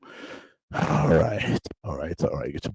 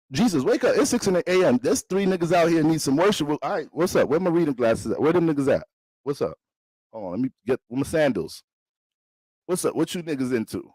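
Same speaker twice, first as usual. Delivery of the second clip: groggy Jesus voice; 4 semitones higher than usual. Pretend. Jesus voiced waking to call.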